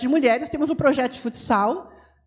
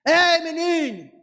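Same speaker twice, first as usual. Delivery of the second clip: slow, loud call, pitched up; loud calling shout; 4 semitones higher, 3 dB louder, slower than usual. Shown as a demonstration. Showing how to call the kids, loud shout. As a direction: yell across the skate park. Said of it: "E como é que fala, meu filho?".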